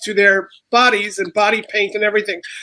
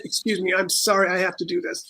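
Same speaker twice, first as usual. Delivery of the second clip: softly retold apology; hushed, apologetic quote; mild apologetic aside; 3 semitones lower, 7 dB quieter than usual. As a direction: lower your voice, politely excusing yourself. Retelling his sheepish apology to performers.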